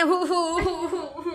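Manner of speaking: light imitation of a child's sob; mock sobbing. Mother mimics her crying son's sobs, lightly. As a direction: copy his little sobs, half laughing. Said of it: "वही मैं हु, हु, हु, हु कर रहा है".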